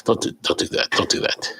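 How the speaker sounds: hushed urgent warning; whispering. Retold or imitated. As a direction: whisper it, pleading. Friend scolding the pronunciation.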